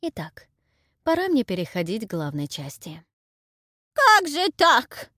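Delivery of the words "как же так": high, loud, slow granny babble; babbling old crone. Acted. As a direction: whine it like a bewildered old woman. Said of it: "лепетала я". (лепечет старуха, высоко и медленно)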